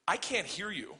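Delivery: retold deadpan defiance; dead serious. Daughter to family friend before all the teachers, dead serious. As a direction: play the stubborn kid, completely serious. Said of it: "looks at him dead serious".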